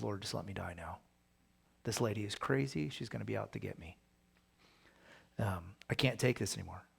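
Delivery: hushed, half-hammed complaint; whining plea. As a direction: whine it out like a worn-out prophet. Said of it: "he's whining and complaining".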